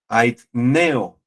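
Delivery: "aitneo" with the accent on the E; Greek word demo. Shown as a demonstration. Preacher teaching his congregation a Greek word, "aitneo" accented on E. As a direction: stress the E in "aitneo". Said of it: "con acento en la E".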